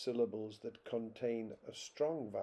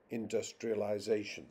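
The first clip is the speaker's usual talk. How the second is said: "industrialization" with main stress on ZA; stress on sixth syllable. Shown as a demonstration. Lecturer showing sixth-syllable stress in English, sixth syllable stressed. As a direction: lean on ZA in "industrialization". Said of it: "and the sixth".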